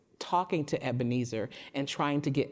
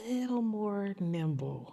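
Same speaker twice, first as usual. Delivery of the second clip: whisper; 7 semitones higher, slower than usual. Real, not acted. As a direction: breathe the words out. Whispered key word.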